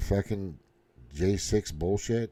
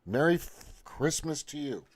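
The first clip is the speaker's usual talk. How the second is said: defiant reply; 6 semitones higher, 5 dB quieter than usual. Retold or imitated. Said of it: "I'm saying".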